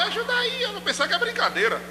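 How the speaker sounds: high-pitched, fairly soft play-acting; teasing cry for help in a high voice; mock plea for help. Preacher teasing a congregant about drowning, high mock plea.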